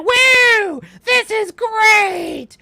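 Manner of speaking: high whooping dopey cowboy; idiot cowboy. Retold or imitated. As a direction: whoop it out like a careless cowboy, slow. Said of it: "she sounds like an idiot cowboy".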